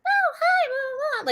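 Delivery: put-on high falsetto girly hello; mock girl voice. Mocking the girl voices Tom Noonan avoids. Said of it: "girl voices like".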